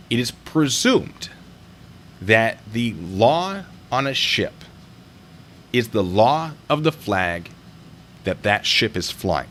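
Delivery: measured, emphatic explaining; slow and deliberate. Real, not acted. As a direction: spell it out slowly. Explaining maritime law deliberately.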